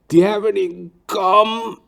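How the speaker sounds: put-on high, loud, drawn-out old man's groan. Barber suddenly groans mid-haircut, high moan. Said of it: "I was like".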